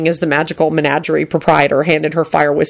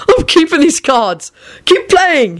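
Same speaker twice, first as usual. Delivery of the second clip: mock stern; 10 semitones higher, slower than usual. A narrator's reading. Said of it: "he told Elizabeth sternly".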